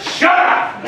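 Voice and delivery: mock shout. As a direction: snap it through a laugh, imitating.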